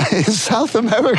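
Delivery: mock Italian accent; hammy Italian lilt. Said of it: "In an Italian accent, of course".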